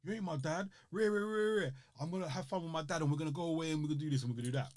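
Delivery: imitating a defiant Will; defiant teen. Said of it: "He's like".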